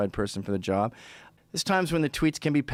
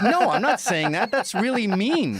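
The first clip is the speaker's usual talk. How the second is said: offended gay friend; 8 semitones higher, 4 dB louder, slower than usual. Retold or imitated. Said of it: "And he's like".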